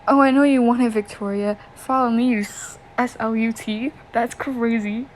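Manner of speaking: lightly voiced creep leering at the girl; menacing bully voice. Reading a villain's taunt to a girl, mildly menacing. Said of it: "Oh, that was horrible".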